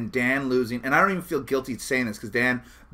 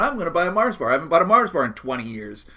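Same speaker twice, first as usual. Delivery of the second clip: excited; 3 semitones higher, 4 dB louder, faster than usual. Retold or imitated. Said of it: "I was really excited going in".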